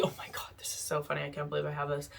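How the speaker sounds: amused whisper. Real, not acted. Amused aside about duped purchase.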